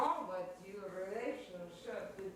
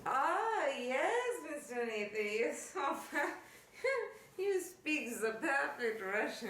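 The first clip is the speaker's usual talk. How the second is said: excited squeal; 7 semitones higher, 4 dB louder than usual. Acted. Helga thrilled, high squeal.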